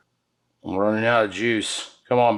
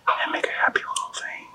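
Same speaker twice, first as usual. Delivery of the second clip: whisper; 5 dB quieter than usual. Real, not acted. Soft aside while drizzling paste.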